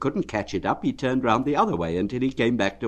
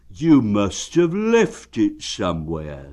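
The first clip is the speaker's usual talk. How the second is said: cheerful bear; 5 dB louder, slower than usual. Acted. Pooh asking Eeyore how he is, friendly. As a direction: ask it kindly like a plump bear.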